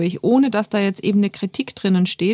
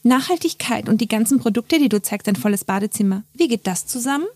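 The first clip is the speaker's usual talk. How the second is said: mock challenge; 3 semitones higher than usual. Follower questioning a creator's sustainability claims, mock challenging. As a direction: voice a sceptical follower, rising on the question.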